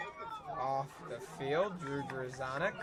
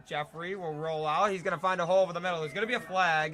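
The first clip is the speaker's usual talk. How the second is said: excited; 5 dB louder, faster than usual. Real, not acted. Live play-by-play, rushing call.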